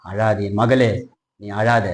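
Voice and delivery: low, gently consoling voice; comforting words. Acted. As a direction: console a grieving daughter quietly. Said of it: "ஆறுதலான வார்த்தை வருது".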